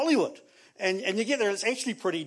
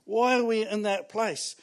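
anguished why; 3 semitones higher than usual. Retold or imitated. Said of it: "you go".

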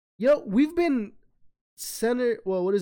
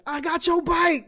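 mocking taunt; 11 semitones higher, 5 dB louder, slower than usual. Acted taunt, stealing bike.

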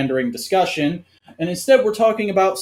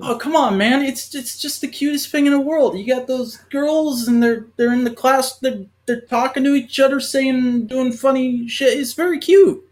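fake wholesome; 7 semitones higher than usual. Gushing, high pitch.

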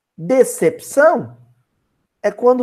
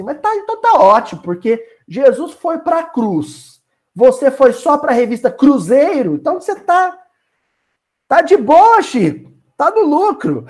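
Emmanuel's voice; 4 semitones higher than usual. Acted. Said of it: "Aí o Emmanuel falou assim".

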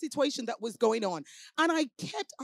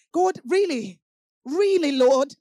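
louder, disbelieving question to God; incredulous plea; 5 dB louder, slower than usual. Retold or imitated. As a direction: ask it like you can't believe it.

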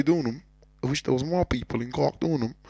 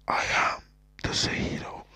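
whispered mock-grand reveal; hushed, theatrical self-announcement; dramatic whisper; 4 dB quieter than usual. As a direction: whisper your stage name like a big reveal. Mock-dramatic reveal of own stage name.

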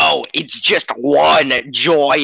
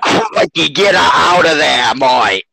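mock Australian accent. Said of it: "he's Australian, if you can't tell".

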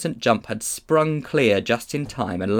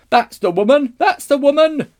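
high, loud accusing shout; fat man's cry; 10 dB louder than usual. A narrator's reading. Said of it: "cried the fat man".

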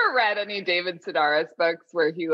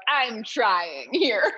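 drawn-out, slightly higher plea; exasperated plea; 4 semitones higher, much slower than usual. Retold or imitated. Struggling French learner to unimpressed chefs, drawn-out exasperated plea. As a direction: stretch it out, pleading for some credit.

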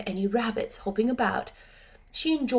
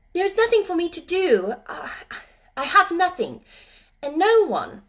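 put-on sad girl; 9 semitones higher, 8 dB louder than usual. Lonely girl confesses.

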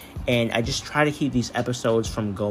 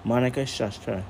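calm storyteller reading aloud; story narration. A narrator's reading. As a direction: read it like a bedtime story.

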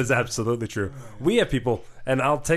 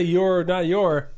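slow deadpan; 4 semitones higher, much slower than usual. Retold or imitated. Repeating his comeback.

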